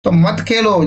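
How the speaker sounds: a mild telling-off; scolding. Shown as a demonstration. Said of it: "फटकार से भी". (हल्की फटकार)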